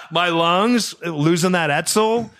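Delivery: said through a real laugh. Real, not acted. Repeating the big lungs joke, laughing. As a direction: still laughing as you repeat it.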